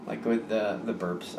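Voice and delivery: talking through a burp; words pushed out on a burp. Real, not acted. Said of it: "sorry about that. Hiccup burp".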